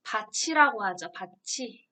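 밭이 said as 바치, with a ch sound; t turned to ch in 밭이; palatalized 밭이. Shown as a demonstration. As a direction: say 밭이 as "ba-chi". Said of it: "이거 발음 어떻게 해요".

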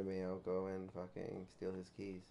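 hushed whisper while sneaking. Real, not acted. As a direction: whisper it, don't get caught. Sneaking up quietly.

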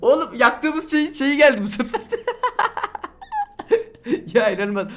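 high, laughing through the words; disbelieving laughter. Real, not acted. Gamer laughs at his viewers after a surprise rainbow pet, cracking up. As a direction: laugh at the absurd luck.

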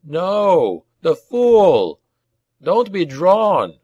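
high, drawn-out cry of dismay; exasperated commander calling out; frustrated curse. A narrator's reading. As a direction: curse a reckless comrade across the field. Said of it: "Godry cursed".

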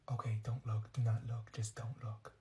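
whispered warning, low and hushed; urgent whisper. Acted. Girl warning her friend about a starer, whispered. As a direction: hiss it so the starer can't hear.

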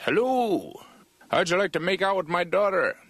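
high, overly cheery local voice; friendly North Dakota guy. Retold or imitated. Comic asks in a high, eager voice. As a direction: play a too-friendly stranger offering his daughter. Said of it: "one guy who'd be like".

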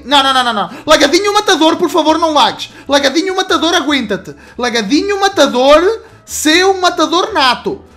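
pleading gamer. Real, not acted. Begging the lag to stop.

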